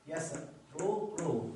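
يسر، رو said slowly, split into its syllables with the ر drawn out. Shown as a demonstration. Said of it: "على وزن يفعلوا". (نطق مقطّع ببطء: يسر، رو)

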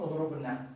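اضربنا with long waw before the nun; original uncontracted form. Shown as a demonstration. Teacher shows the original form, long waw kept. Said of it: "الأصل".

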